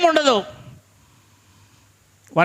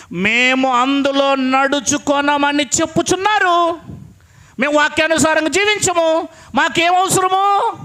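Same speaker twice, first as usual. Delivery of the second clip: slow, drawn-out mock defiance, rising higher at the end; scornful refusal; 3 semitones higher than usual. Preacher mimics people refusing the word, slow and scornful. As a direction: sneer it like stubborn people brushing God off. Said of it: "అని చెప్తున్నారంట".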